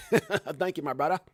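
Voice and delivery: put-on jokey blended Australian accent, half laughing; playfully mix in an Australian accent; mock Australian-Ebonics accent. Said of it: "Did I add, like, um, Ebonics and Australia?".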